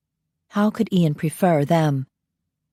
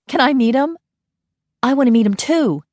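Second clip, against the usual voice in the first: eager begging; 8 semitones higher, 4 dB louder than usual. Acted. Vamp fans beg to meet Ian.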